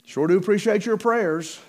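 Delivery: imitating an evangelist angling for money; mock begging evangelist. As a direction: play a preacher fishing for an offering. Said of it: "most evangelists would have written it like this".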